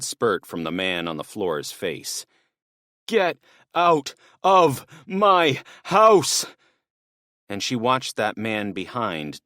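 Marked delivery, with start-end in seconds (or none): 3.1-6.5 much higher and louder, slow stretched yell; drawn-out roar. Acted. Father roaring at the intruders, slow and furious. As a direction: bellow it with everything.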